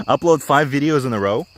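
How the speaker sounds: talking around a cigarette; cigarette in mouth. Real, not acted. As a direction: speak with a cigarette between lips. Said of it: "talking with a cigarette in my mouth".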